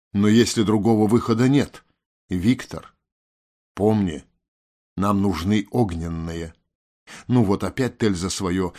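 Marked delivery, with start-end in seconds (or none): 0.1-6.5 drumming it in, slowing to the end; patient lecturing. A narrator's reading. Tel reminding Viktor of the goal, teacherly insistence. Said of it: "словно втолковывая урок непонятливому ученику".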